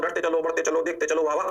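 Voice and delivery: even, monotone chant; measured singsong drill; rote-learning delivery. Shown as a demonstration. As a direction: recite it steadily like drilling it in. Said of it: "धीरे धीरे बोल रहा हूँ, रटा के बोल रहा हूँ".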